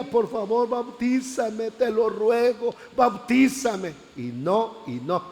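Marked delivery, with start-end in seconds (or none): 0.0-3.9 ruego alto y alargado; súplica actuada. Retold or imitated. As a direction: implorar con insistencia, estirando las palabras. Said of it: "le pedía". (súplica insistente, más aguda)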